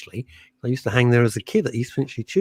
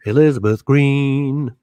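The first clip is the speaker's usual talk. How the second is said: grand announcement; 4 dB louder, slower than usual. Shown as a demonstration.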